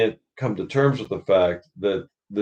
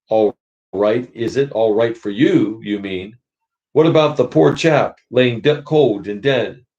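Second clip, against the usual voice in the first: indignant big ghost. Acted. Big ghost mocks the bright spirit's calm, indignant. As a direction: scoff at the murderer's ease.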